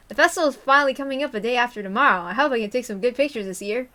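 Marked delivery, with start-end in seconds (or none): 0.1-2.2 louder, fast retake in Tomitake's voice. Shown as a demonstration. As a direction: redo it as the cheerful photographer. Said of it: "oops, that's Tomitake. Let's try again".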